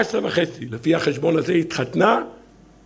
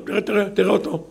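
higher-pitched mocking accuser; sneering accusers; 5 semitones higher than usual. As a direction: point him out with scorn. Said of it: "המקטרגים קופצים מיד".

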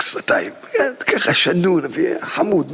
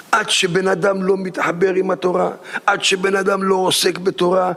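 building refrain. Acted. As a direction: build each repeat toward song. Building sermon refrain with music. (פזמון דרשני שמתעצם)

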